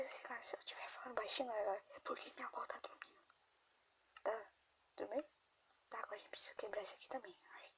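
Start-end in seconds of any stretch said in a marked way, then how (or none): 0.0-3.2 fast hushed whisper. Real, not acted. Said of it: "porque eu tô falando baixinho". 5.9-7.4 whispering. Real, not acted. Whispers while grandma sleeps.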